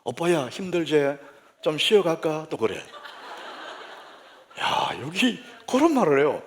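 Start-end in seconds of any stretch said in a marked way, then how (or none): 0.0-2.5 slow, coaxing Gyeongsang dialect; lightly voiced Gyeongsang woman; Gyeongsang woman navigation. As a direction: suggest a break in Gyeongsang dialect. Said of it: "그 얘가 또 말을 해".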